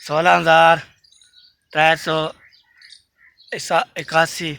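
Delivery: loud, emphatic number reading. Real, not acted. Vlogger announcing his subscriber count loudly. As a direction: call out the count loud and clear. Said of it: "पहले गिनती".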